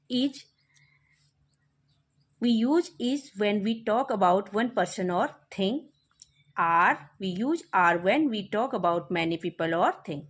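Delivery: very slow rule read aloud; slow dictation. Shown as a demonstration. Teacher dictating the is and are rule, slowly. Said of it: "teacher reads the rule".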